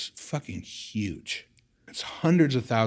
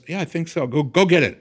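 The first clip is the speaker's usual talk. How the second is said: frantic back and forth; 8 semitones higher, 6 dB louder than usual. Retold or imitated. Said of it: "She goes".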